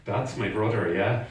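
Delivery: low, unruffled correction; polite mock apology. Replying to the shouting stranger, calmly polite. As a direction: answer aggression with calm literal politeness.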